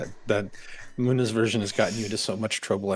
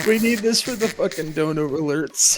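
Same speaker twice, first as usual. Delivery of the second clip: laughing; 5 semitones higher than usual. Real, not acted. Begging through laughter.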